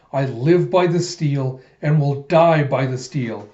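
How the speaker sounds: slow, emphatic declaration; solemn battle vow. Retold or imitated. Den vows before rushing into battle, slow emphatic declaration. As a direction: declare it slowly like an oath.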